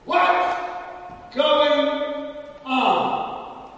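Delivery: pregunta. Acted. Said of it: "Bartimaeus asked".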